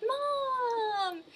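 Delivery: put-on high little-kid cry of Mom; toddler calling. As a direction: answer like a happy toddler. Giant toddler answers mother.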